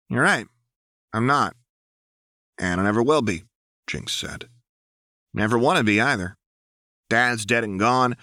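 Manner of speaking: face him down and mean it; defiant Jinx. A narrator's reading. Jinx answers Petrock defiantly.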